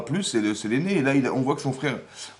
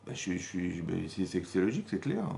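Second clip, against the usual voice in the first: stammering Cain; 5 semitones lower, 7 dB quieter than usual. Acted. Cain stammers his reply.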